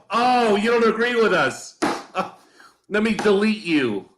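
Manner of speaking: high, laughing mock of a petty host; mocking quote. Host mocks shows that delete critics, high and laughing.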